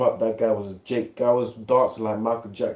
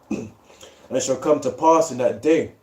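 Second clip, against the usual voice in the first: measured, slightly raised reading of scripture. Acted. Friend reads Isaiah aloud to the group, solemn reading voice. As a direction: read the verse out like a preacher.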